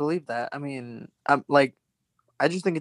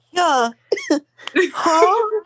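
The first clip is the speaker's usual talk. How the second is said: put-on high, loud, botched Australian accent; squeaky failed attempt at Australian; bad Australian accent; 6 dB louder, much slower than usual. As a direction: try an Australian accent and miss. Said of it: "Ew, you can't do it".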